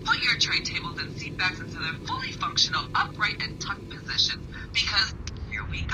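airport announcement. Acted. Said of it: "Attention passengers".

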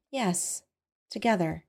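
hushed, dreamy agreement; softly. A narrator's reading. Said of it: "she said softly".

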